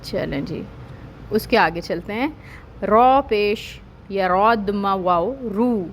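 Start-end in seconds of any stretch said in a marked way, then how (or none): 2.8-5.8 letters spelled out slowly; slow, careful letter-by-letter reading; slow spelling out. Shown as a demonstration. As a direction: spell each letter deliberately. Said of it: "اب اس کو کیا کریں گے".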